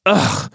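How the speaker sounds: short annoyed ugh; irritated grumble. Acted. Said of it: "Carmen grumbled with irritation".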